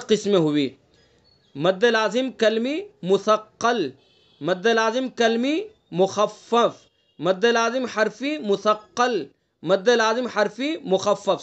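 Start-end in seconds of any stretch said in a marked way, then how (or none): 1.5-11.4 slow, deliberate naming of each term, لازم stressed; careful naming. Shown as a demonstration. Teacher listing terms slowly for students to repeat. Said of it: "صحیح تلفظ کرنا ہے ان کا".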